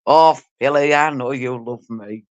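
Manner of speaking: lightly put-on farmer voice, slow and low at the end; teasing drawl like a country farmer. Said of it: "They love my farmer voice".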